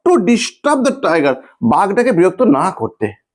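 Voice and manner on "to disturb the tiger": slow dictation. Shown as a demonstration. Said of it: "দেখো এইটুকু fossil হয়েছে".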